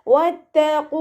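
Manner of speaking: വത്തഖൂ with lips rounded on the waw. Shown as a demonstration. Teacher demonstrates വത്തഖൂ with rounded lips. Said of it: "ഖാഫ് ഇസ്തിഅലാൻ്റെ".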